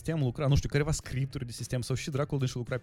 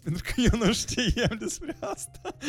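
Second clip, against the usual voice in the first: laughing; 11 semitones higher, 4 dB louder, slower than usual. Real, not acted. Laughs at own ignorance.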